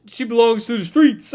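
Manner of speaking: loud, high mocking meme line; quoting a meme to mock the heroine, loud and high. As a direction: quote the meme with sass. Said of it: "the meme".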